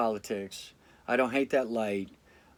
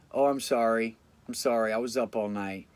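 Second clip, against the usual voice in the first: mock pleading. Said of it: "Basically begging for your forgiveness".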